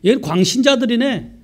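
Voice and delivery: high-pitched retold taunt; mocking scoffers. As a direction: imitate people ridiculing believers. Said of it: "사람들이 조롱한다는 거예요".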